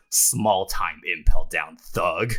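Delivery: slow, weighty put-down; measured, unimpressed insult; dismissive Garp line. Acted. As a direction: drop it slowly, dismissing a nobody. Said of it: "just looks at him and just goes".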